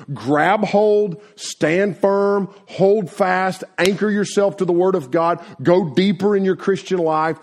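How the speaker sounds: rally the youth to hold on; rousing exhortation. Acted. Preacher urging young people to stand firm, rousing.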